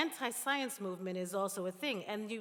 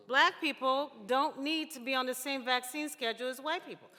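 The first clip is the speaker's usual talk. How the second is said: louder, higher, scornfully quoting a claim; incredulous mock quote; 4 semitones higher, 5 dB louder than usual. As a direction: say it as if you can't believe anyone said it. Mocking Kennedy's claim on vaccines.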